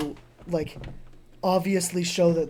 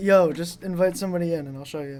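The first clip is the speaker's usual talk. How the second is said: ordinary talk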